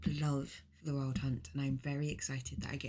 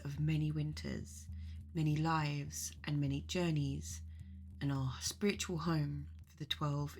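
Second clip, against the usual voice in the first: guided meditation. Acted. Leading listeners on a journey to the mead hall, guided meditation. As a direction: guide listeners unhurriedly, phrase by phrase.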